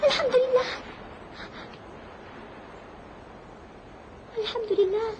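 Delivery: tearful joy. Acted. Castaway sees rescue boat.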